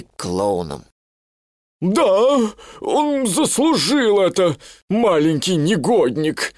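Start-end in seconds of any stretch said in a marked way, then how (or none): 1.8-6.5 spiteful, higher gossip voice; grumpy elephant. A narrator's reading. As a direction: sneer at the little one. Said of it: "сказал один из слонов". (ворчливая слониха)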